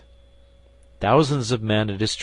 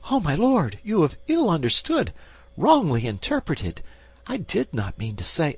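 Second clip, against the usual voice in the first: higher, pleading queen reproaching her lover; a queen gently accusing the man who loves her; the queen's voice; 9 semitones higher than usual. Acted. Queen reproaches the duke, higher pleading voice.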